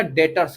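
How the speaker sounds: "डेटर्स" with no B sound; silent B. Shown as a demonstration. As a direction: model "डेटर्स", leaving the B silent. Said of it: "बी silent है".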